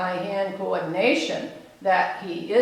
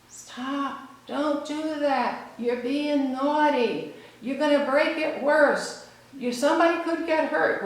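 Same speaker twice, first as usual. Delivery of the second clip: higher-pitched imitation of a scolding grown-up; scolding adult; 6 semitones higher than usual. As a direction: imitate an adult admonishing a child. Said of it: "the adults would say".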